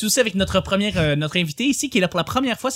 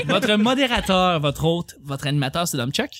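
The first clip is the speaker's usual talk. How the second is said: slow, lower host announcement; announcer voice; 3 semitones lower, slower than usual. Acted. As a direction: announce yourself like a game-show host. Self-introduction as show host.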